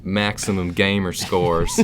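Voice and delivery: slow, drawled gamer-bro voice. Pretend. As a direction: lay on a dumb gamer-kid voice. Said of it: "That's my, my gamer voice".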